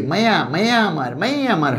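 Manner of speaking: sing-out মায়া আমার with y between the vowels; y-glide. Shown as a demonstration. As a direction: say মায়া as "maiya", gliding into আমার. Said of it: "উচ্চারণ দেখো".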